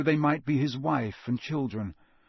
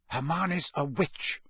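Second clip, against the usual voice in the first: snarled; 3 semitones higher, slower than usual. Acted. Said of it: "Harry snarled".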